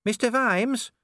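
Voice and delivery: high urgent call; dwarf calling. A narrator's reading. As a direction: call him from the passage. Cheery calls out.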